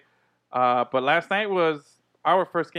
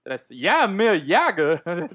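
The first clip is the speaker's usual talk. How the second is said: Walken-ish; 3 dB louder, slower than usual. Retold or imitated. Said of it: "went all fucking Chris Walken on that one".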